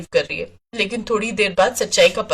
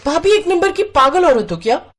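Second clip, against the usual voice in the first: sharp, raised, scolding sister-in-law; angry; 4 semitones higher than usual. Acted. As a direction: snap at her over the mixer. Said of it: "Pinky ने गुस्से में". (गुस्से में ऊँची आवाज़ में डाँटना)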